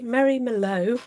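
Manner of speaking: Merlot as "mer-LOH" with an American r; American-sounding Merlot, r kept in; American accent. Real, not acted. Naming a colour, Merlot said with an American accent. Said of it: "You said Merlot with an American accent then".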